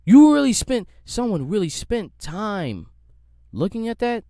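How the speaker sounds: loud, high burst of disbelief; incredulous outburst. Real, not acted. Mocking the Twitter sleuth, incredulous outburst. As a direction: blurt it out in disbelief.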